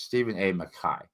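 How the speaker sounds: Mackay ending in a long I, "muh-KAI"; correct pronunciation. Shown as a demonstration. Reviewer repeating the author's name as taught, Mackay as "muh-KAI". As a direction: say Mackay to rhyme with "sky". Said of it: "that's the trick".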